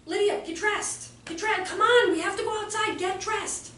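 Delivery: 稍高声的催促，略带不耐烦; 半认真地模仿老师一遍遍催孩子; 轻微模仿严厉老师. Retold or imitated. Teacher repeatedly orders child.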